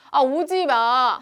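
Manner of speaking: 크고 천천히 오지 마; 밀어내듯 느리게 크게. Acted. 다가오는 N극을 막는 역할. (다가오는 N극에게 크게 외침)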